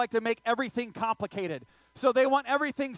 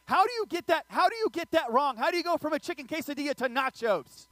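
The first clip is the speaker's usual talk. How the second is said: high, loud, disbelieving rant; exasperated outrage; 6 semitones higher, 3 dB louder than usual. Real, not acted. Preacher fuming at the customer who swapped orders, loud and outraged. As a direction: fume at the nacho mix-up. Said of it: "I was mad".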